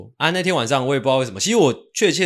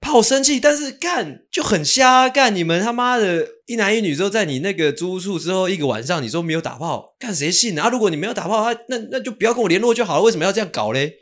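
louder, much higher, indignant outburst; heated rant; 9 semitones higher, 4 dB louder than usual. Real, not acted. Host ranting to his co-host about his ex's excuse, hot and indignant.

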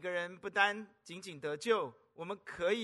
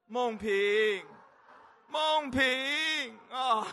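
calling out; 4 semitones higher, 6 dB louder, much slower than usual. Retold or imitated. Calling out to his child.

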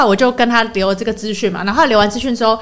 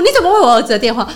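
quick retold question; faster than usual. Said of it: "她就突然间想到说".

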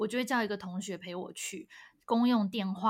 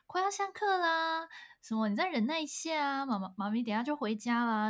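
lightly imitated motherly reassurance; retold soothing mother; 4 semitones higher than usual. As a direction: comfort a crying child patiently. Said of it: "每一天都安慰我说".

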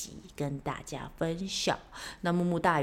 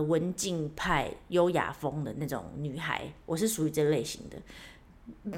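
mock demure; 3 semitones lower, slower than usual. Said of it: "我讲完自己都很想笑".

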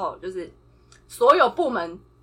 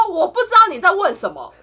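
带笑的不耐烦; 略带火气地顶回去; 情绪上来; 6 semitones higher, 6 dB louder than usual. Retold or imitated. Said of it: "然后我就说". (不耐烦地顶一句)

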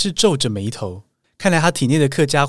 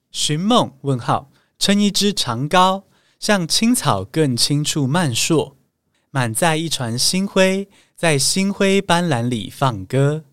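slow, lingering poetic reading; poem recitation; slower than usual. Acted. Host reciting a poem to listeners, slow and lingering. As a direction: savor each line like a recited poem.

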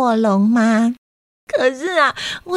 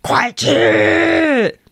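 sudden high shouted order; dad shouting at a picky eater to eat; loud command; 5 semitones higher than usual. Retold or imitated. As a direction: bark it like an angry dad. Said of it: "还会大声地说".

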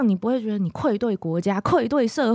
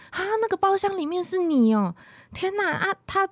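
shocked question; 6 semitones higher than usual. Retold or imitated. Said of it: "然后我说".

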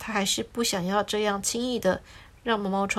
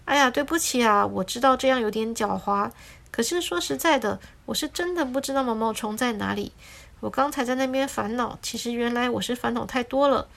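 the lemon apologizing to the sparrow for his trick; apologetic. Acted. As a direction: say sorry a little sheepishly. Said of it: "也觉得很抱歉地说".

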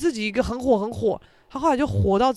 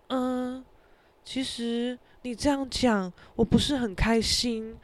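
小声慢吞吞地表示不满; 压低声音委屈地说; 闹别扭; 7 dB quieter, slower than usual. Retold or imitated. 模仿室友在群组里闹别扭. (轻声慢慢地闹别扭)

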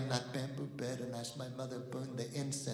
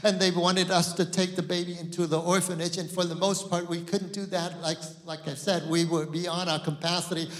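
loud, higher sermon voice; impassioned preaching; 7 semitones higher, 16 dB louder than usual. Acted. Pastor telling the orphanage story, loud and impassioned. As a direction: press the burden hard.

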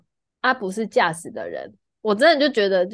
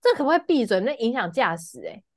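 angry rant; 5 semitones higher than usual. Retold or imitated. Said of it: "在车上大发飙".

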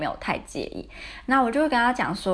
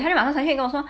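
ordinary delivery

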